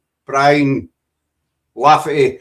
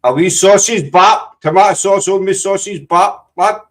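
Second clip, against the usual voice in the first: mock Yorkshire accent. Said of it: "You sounded like you were from Yorkshire".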